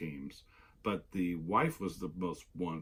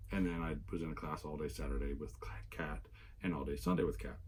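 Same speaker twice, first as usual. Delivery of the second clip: raspy; 3 semitones lower, 4 dB quieter, faster than usual. Real, not acted. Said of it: "I'm still a little raspy".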